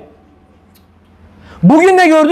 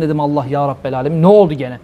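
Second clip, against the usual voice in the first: bıkkın sitem; 9 semitones lower, faster than usual. Retold or imitated. Hoca exasperated retelling police call.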